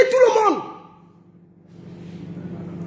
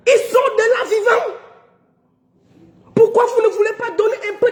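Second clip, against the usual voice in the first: tearful outcry; 2 semitones higher than usual. Real, not acted. Repeating it to the organisers, a tearful outcry. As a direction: let the voice crack into a tearful cry.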